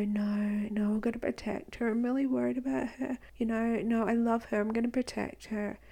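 whispered mock protectiveness; a softly whispered show of love and worry; fake caring. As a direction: put on his hushed, caring act. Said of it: "delivering it like that is a literal psychopath".

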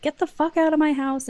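high-pitched, retold indignant order; mock angry order. Woman throwing her date out, imitated indignation.

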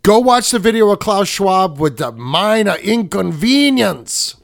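a mock accent that co-host hears as Mexican; put-on foreign accent. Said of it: "You sound like a Mexican".

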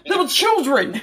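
pleading with Danny, a hammed-up Jon Snow accent; mock northern outcry, laughing at the end. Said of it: "something that Jon Snow would say".

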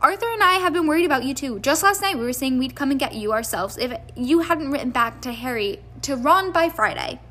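fast, worried motherly chatter; fussy mother. Acted. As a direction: fuss over him in a rush. Mrs Weasley fussing over Harry.

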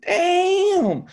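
high, loud wailing damn; mock crying damn. Hearing his friend quit too, a high wailing damn. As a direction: wail it like a fake sob.

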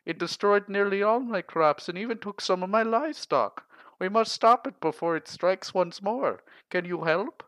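high, loud, panicked plea; frantic farmer. Acted. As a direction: beg for help in a panic.

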